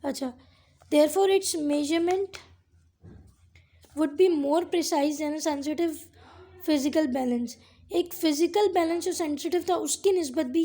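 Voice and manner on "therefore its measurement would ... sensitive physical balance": slow dictation. Shown as a demonstration. Teacher repeating the textbook sentence for the class, very slow. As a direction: say it again word by word, very slowly. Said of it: "re-dictating textbook line slowly".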